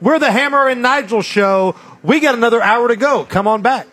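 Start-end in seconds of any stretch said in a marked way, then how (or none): none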